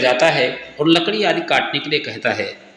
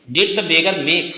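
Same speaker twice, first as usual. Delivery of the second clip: slow dictation; much slower than usual. Shown as a demonstration. Teacher reads question slowly.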